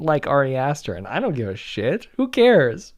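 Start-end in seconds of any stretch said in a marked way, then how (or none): 0.9-2.1 salty. Real, not acted. Dismissing the complaint. 2.2-2.9 high, louder scoff. Real, not acted. First dismissal.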